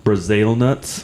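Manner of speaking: slow, drawn-out Australian "Brazil nuts"; mock Australian accent. Listing nuts for laughs, a slow mock Australian accent. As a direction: stretch "Brazil nuts" in a light Aussie accent. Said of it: "go totally Australian".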